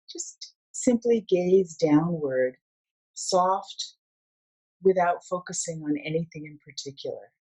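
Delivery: measured meditation guide with long pauses; guided meditation. Acted. Mindfulness coach leading listeners through a sound meditation, unhurried guiding voice. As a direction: guide them gently into stillness, phrase by phrase.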